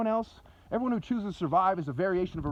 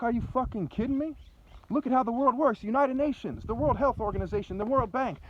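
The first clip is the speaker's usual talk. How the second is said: higher-pitched retold incredulity; exasperated retort; 4 semitones higher than usual. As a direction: replay an indignant argument, pitch raised. Retold exasperated retort in heated argument.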